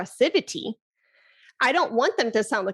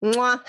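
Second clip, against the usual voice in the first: chef's kiss smack. Shown as a demonstration. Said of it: "I think it's like".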